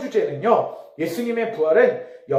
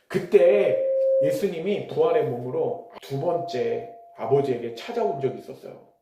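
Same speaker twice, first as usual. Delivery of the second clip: usual speaking voice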